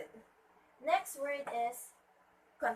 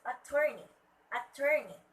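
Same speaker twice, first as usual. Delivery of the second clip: "attorney" as a-TOR-ney, louder; stress on second syllable; 5 dB louder than usual. Shown as a demonstration. Teacher modelling the next word, "attorney" stressed on TOR. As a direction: push TOR in "attorney", then fall. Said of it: "should be at the second syllable".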